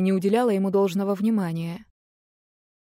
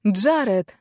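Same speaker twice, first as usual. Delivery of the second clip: calling his name out louder; shouting his name; 3 dB louder than usual. Acted. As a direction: call after him as he leaves. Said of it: "закричала я".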